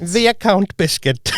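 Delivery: Viscount drawn out in a dodgy accent; hammed-up, slow Jamaican-style accent. Shown as a demonstration. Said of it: "in my dodgy accent now".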